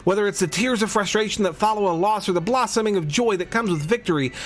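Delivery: lightly voiced gushing photographer; a hint of an excited artist; gym leader voice. Reads gym leader Viola's lines.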